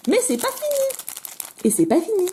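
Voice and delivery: high sing-song ad slogan; ad jingle. Pretend. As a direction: mimic the TV advert tagline. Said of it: "Faut que j'arrête de la faire, cette blague". (imitation légère d'un slogan de pub)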